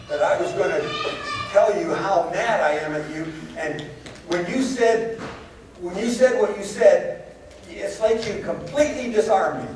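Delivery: high, half-laughing mock anger; laughing retold complaint. Missionary laughingly admits his anger was disarmed. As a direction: retell his grudge while laughing along. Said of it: "He said".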